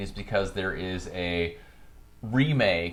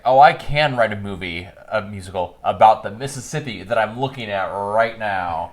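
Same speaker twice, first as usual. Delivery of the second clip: mildly hammed-up eureka, louder at the start; mock inspiration; 4 dB louder than usual. Mocking a movie hero's musical mojo returning, lightly hammed-up realization. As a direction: act out a sudden bright idea.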